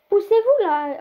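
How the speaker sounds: loud, high call to get out of the way; shout. Real, not acted. Gamer yelling at characters in his way, loud and high. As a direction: bark at them to move aside.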